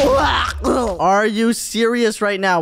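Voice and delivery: disbelieving shout, dragged slowly; slow outraged yell. Acted. Friend yells slowly at Shady chasing him with TNT.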